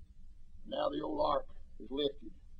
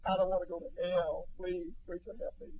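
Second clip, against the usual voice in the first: weeping plea; 3 semitones higher, 4 dB quieter than usual. Retold or imitated. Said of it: "cry and weep and say".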